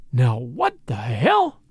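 low, slow, shocked growl of disbelief; stunned outburst. Acted. Judge shocked that the men have fled, slow and low. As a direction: drag it out, dumbfounded.

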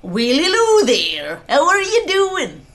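loud, drawn-out Irish lilt; hammed-up, badly faked Irish greeting; bad Irish accent. Shown as a demonstration. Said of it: "Do Irish".

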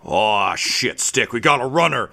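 lightly voiced guard calling out to a partner; a hint of alarmed in-character callout; Crindy. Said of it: "Crindy turns and just says".

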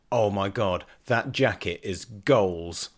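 put-on slow, level young person's gush; imitated young slang-user. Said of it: "two young people got in".

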